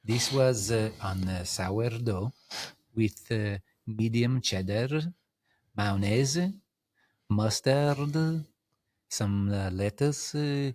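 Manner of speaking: light mock Italian accent, savoring each food word. Describing his lunch to the host, a light mock Italian accent. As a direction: lay on a gentle Italian accent listing sandwich fillings. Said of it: "talk to me in an Italian accent".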